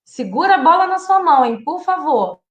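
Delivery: put-on high, lilting request to a toddler; mother asking a small child to hold the ball; sing-song positive command. Shown as a demonstration. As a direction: make the rule sound friendly. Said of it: "a gente vai falar".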